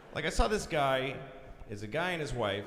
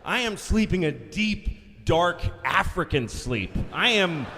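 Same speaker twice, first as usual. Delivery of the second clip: dreamy rhapsody; 4 dB louder, slower than usual. Acted. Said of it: "hammed-up sleep rhapsody".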